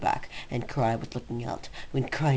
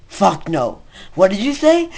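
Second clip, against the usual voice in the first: much higher, shouted outraged yell; comic shouted refusal, pitched way up; shocked yell; 8 semitones higher, 12 dB louder than usual. Acted. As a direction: blow up in mock horror. Comic outburst as Cry.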